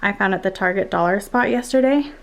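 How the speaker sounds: slightly winded, out of breath; talking while still out of breath. Real, not acted. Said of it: "Sorry, I'm so out of breath".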